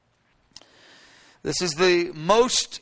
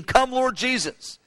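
1 interceding cry; 5 semitones higher, slower than usual. Retold or imitated. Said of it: "the Holy Spirit's interceding".

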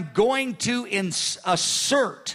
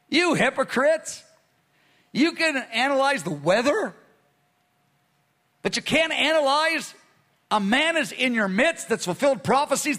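rising rebuke; 4 semitones higher than usual. Acted. Preacher voicing Jesus' rebuke.

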